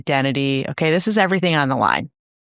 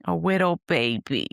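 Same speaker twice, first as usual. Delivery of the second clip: put-on softer, lisping "wittle baby" voice; 5 dB quieter than usual. Naming the baby voice option, softly in baby talk. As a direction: coo it like a toddler. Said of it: "or talk like".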